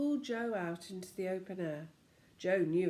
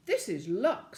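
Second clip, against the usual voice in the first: soft snowy voice; 7 dB louder than usual. Acted. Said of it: "in a soft, snowy sort of voice".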